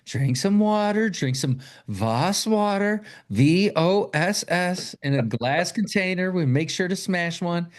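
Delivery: high, slow put-on mom voice; imitated mom. Mom telling her daughter to calm down, imitated high and slow. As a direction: draw it out, high, as a mock-soothing mother.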